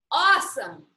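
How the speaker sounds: loud, delighted burst; excited exclaim. Acted. Boy finding an old library slip, loud and thrilled. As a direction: blurt it out, thrilled by the find. Miguel finds something in book.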